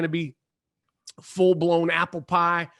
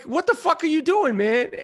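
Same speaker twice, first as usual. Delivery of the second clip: retold angry outburst; 7 semitones higher than usual. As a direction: snap at a stranger who ran up in the dark.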